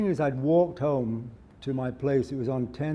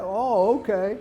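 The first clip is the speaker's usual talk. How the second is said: higher, mock-meek little voice; meek compliance; 6 semitones higher, 3 dB louder, slower than usual. Robbed man obeying the robber, retold in a higher meek voice. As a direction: give in meekly, pitched up.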